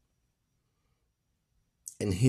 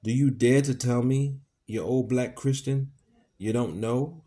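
loud angry challenge; 4 semitones higher, 4 dB louder than usual. Acted. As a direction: hurl the question in anger. Legree furious interrogation.

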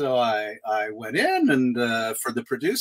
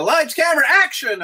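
high, loud set call; 12 semitones higher, 5 dB louder than usual. Retold or imitated. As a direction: announce the take to the whole crew. Acts film crew's call on set.

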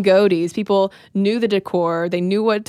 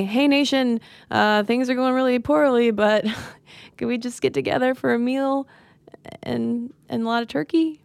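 higher-pitched, tentative plea with a laugh; mock sheepish appeal; 3 semitones higher than usual. Imagining a president appealing to the nation, mock sheepish.

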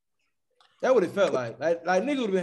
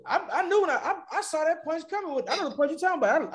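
laughing; 9 semitones higher than usual. Real, not acted. Laughing while retelling.

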